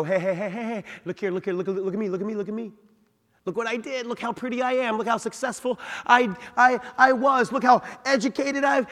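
high, loud bragging voice; show-off voice. Pretend. Voicing the boasting heart.

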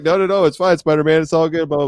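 high-pitched imitation of the guy; reassuring guy. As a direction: brush it off, high and chipper. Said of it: "He's like".

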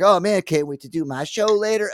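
high, upbeat voice; mock cheerful self. Walking through the store, a high cheerful mock thought. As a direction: play yourself carefree and happy.

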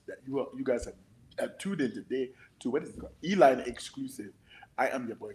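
put-on host hype in a Nigerian accent; lively Nigerian accent, upbeat intro. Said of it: "did you hear my Nigerian accent".

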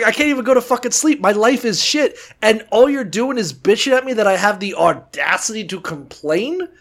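whiny angry rant. Retold or imitated. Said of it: "he's just like".

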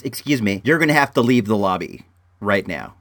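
put-on flat, low, offhand counter-girl voice; calm retold request to leave; imitating nonchalant clerk. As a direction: toss it off like it's nothing. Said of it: "she said it so low".

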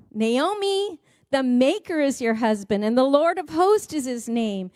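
a preacher declaring scripture to the congregation; scripture reading. Real, not acted. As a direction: proclaim the promise to the widow. Reading Isaiah aloud.

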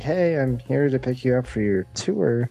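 normal talking voice

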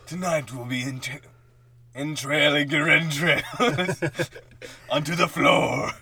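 spooky voice. Pretend. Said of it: "Oh, you'd be like".

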